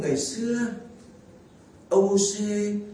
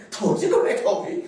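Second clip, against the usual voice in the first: high reply with a laugh in it; laughing mother's reply; 8 semitones higher, 4 dB louder than usual. Retold or imitated. The mother replying to her husband, laughing. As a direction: answer bashfully through laughter. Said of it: "Mẹ tôi nói".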